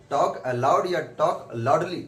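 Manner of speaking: slow, weighing each option; slow, deliberate question. Shown as a demonstration. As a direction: let the students weigh both choices. Teacher posing choice slowly. (धीरे, सोचने के लिए रुकते हुए)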